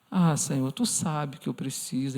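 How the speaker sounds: soft, small pleading voice to the Lord; pleading prayer voice. Retold or imitated. Believer excusing himself to God in a soft pleading whimper. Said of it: "A gente muda até a voz".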